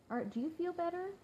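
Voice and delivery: lightly voiced small boy, high and soft; sweet child voice. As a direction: gently imitate a caring little son. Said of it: "That's what they always say".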